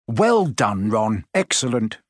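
lightly pompous praise; a touch of self-important approval. Acted. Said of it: "said Percy Weasley pompously".

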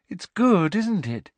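high, bright and pleased; proud and delighted with herself; happy. A narrator's reading. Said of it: "said Luna happily".

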